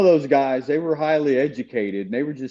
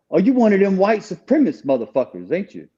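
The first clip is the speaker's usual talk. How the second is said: higher, mocking voice of a hostile chaplain; imitating accusing chaplain; 7 semitones higher than usual. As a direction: throw the accusation at him with contempt.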